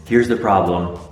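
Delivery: hushed late-night whisper. Real, not acted. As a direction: whisper close to the camera, Blair Witch style. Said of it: "at night I feel like I have to whisper".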